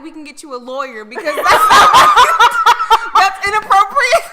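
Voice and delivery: loud, laughing indignation; indignant laughing. Pretend. Fan offering crying idols a lawyer, loud and laughing. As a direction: protest through laughter. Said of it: "I would be like".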